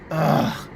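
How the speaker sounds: long disgusted groan; exasperated groan. Real, not acted. Comic fed up with the hypocrisy, exasperated groan.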